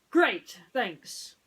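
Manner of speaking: hint of a worried toy pig; lightly voiced Ham. Ham asks friends about Mister Spell, lightly voiced. Acting natural.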